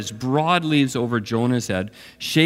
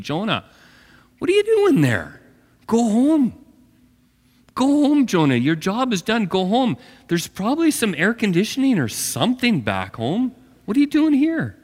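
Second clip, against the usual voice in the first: exasperated calling out; 7 semitones higher than usual. Acted. Preacher calls out to Jonah.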